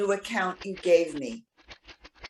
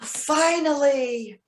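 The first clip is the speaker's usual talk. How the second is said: drawn-out, higher relieved sigh of a word; relieved finally; 4 semitones higher, 4 dB louder, much slower than usual. Acted. Woman finally getting his letter, slow and relieved. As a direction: let the wait pour out. Long-awaited letter arrives.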